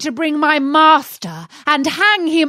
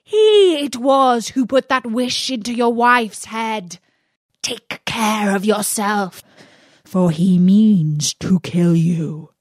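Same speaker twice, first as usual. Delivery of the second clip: loud, high, furious rant; angry genie; 3 semitones higher, 4 dB louder than usual. Acted. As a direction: rage at the master, louder and higher. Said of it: "he cried".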